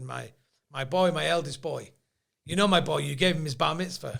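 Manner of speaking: a hint of a put-on Jewish accent; joke-teller lightly playing the Jewish father. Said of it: "Jewishing it up".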